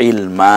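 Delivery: ইলমা with the final a held long; one-alif elongation. Shown as a demonstration. Teacher showing learners the stretch, long final vowel. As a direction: draw out the last vowel of ইলমা. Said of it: "একালিপ টেনে বলতে হবে".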